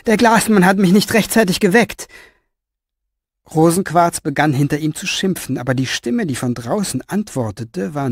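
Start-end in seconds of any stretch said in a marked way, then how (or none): 0.1-2.1 calling out. Acted. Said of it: "rief er".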